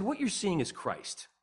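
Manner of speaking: slow, deliberate statement; measured answer. Retold or imitated. Telling a colleague where joy comes from, measured and slow. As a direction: state it slowly and evenly.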